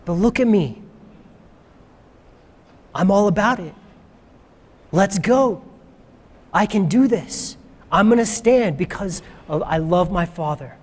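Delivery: steady, unafraid reassurance, lightly acted; calm confidence. Jesus warning the guys Satan is coming, calm and unafraid. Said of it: "calmness, confidence, not afraid".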